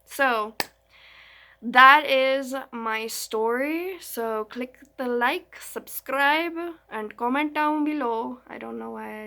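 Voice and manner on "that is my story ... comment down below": put-on loud, slow Indian accent outro; hammed-up Indian accent sign-off. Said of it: "I did, like, an Indian accent".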